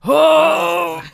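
loud, high cry of dismay; horrified cry. Retold or imitated. Bard reacting to an awful demand, loud mock horror. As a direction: recoil aloud in exaggerated horror.

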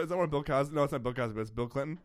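ordinary talk

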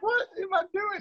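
a thick Southern twang; Southern accent. Retold or imitated. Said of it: "That sounds so Southern".

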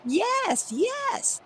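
high, eager yes; eager ghost. Acted. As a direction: answer like a hopeful ghost.

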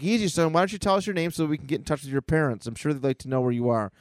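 lightly voiced quick, placating adult; Iron Man. Iron Man soothes the boy, brisk light placating. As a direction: talk the kid down briskly.

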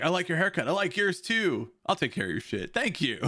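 high, prim manager-lady voices; mock Karen voices. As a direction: play two Karens complimenting. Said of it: "two people saying".

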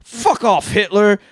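high, loud fuck off; shouted line. Retold or imitated. Quoting Jojo's big line to cohosts, shouted. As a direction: yell it like a furious kid. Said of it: "we get another great line".

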